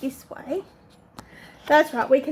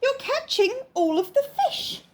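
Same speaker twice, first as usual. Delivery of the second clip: grumpy bear voice; 9 semitones higher than usual. Acted. Brown bear complaining.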